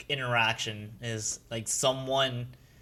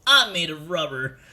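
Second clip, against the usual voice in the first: lightly voiced cartoon hero, louder; Sonic Luffy; 3 semitones higher, 6 dB louder than usual. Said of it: "That's the Sonic Luffy voice".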